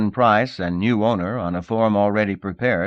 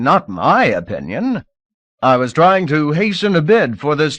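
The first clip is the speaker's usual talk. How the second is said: higher, louder frightened begging; an auctioneer grovelling to a lord, desperate and higher; desperate pleading; 5 semitones higher, 6 dB louder than usual. Acted. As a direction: plead fast for your life, voice climbing. Auctioneer begs for his life.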